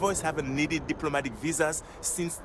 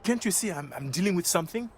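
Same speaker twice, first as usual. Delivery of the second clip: snapping; 6 semitones higher than usual. Acted. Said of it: "here I am biting your head off".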